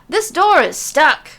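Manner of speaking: high, loud, slow frantic yell; frantic shout. Acted. Messenger yanking the stuck door, shouting frantically. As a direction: yell it while fighting the door. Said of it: "R-Truth shouts frantically".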